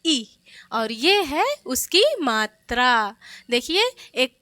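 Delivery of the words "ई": ई said short and light; a quick short ई sound. Shown as a demonstration. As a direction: say ई briefly, quickly. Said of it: "धीरे से क्या".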